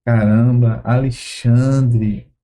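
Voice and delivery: a lightly voiced saddened Jesus, slow and low; grieved Jesus. Jesus silently grieving over the accusers, low and sorrowful.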